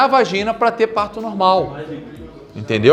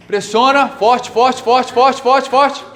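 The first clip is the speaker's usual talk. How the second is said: rising coach cheer; 5 semitones higher, much slower than usual. Shown as a demonstration. Instructor cheering the class through the hold, climbing higher. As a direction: pitch climbing higher with each forte. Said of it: "coach pushing the hold".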